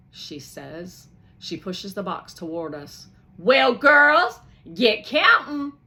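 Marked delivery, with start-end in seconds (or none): 3.4-5.7 high, loud, cheerful; cheerful order. Acted. Missus Bailey urging the girls, high and loud. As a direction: urge them on with delight.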